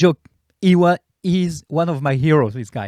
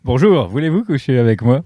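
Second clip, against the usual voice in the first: lower-pitched French dubbed seducer; John Travolta; 5 semitones lower than usual. Acted. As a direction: play a dubbed film star's smooth come-on. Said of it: "John Travolta doesn't speak French".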